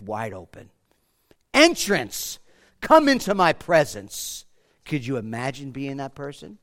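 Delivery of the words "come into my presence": ordinary talk, nothing marked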